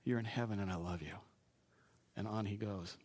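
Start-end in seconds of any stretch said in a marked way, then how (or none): 0.0-1.2 soft, hushed, like chatting with your dad; quiet, familiar prayer to a father; intimate talk to Dad. Pretend. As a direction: say it close and easy. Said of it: "You just talk like this".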